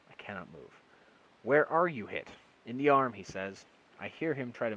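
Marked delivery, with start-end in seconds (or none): 1.4-3.1 loud, high urgent voices; calling out. A narrator's reading. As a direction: shout through the dirt to each other. Calling out buried in dugout.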